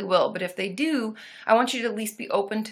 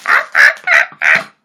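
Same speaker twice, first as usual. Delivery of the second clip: loud high monkey ah-ah calls; 12 dB louder than usual. Pretend. Trying out a better monkey call for the chat. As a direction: call out like an ape. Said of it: "monkey noises are improving".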